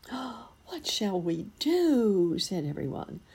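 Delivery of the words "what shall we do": slow, high, frightened wail; panicky high cry. Acted. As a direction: guests crying out in alarm at the news, frightened and high. Guests panic at the news.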